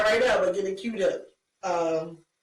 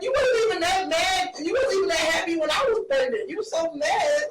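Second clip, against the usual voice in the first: upset wife; 6 semitones higher than usual. Retold or imitated. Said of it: "Your wife was like".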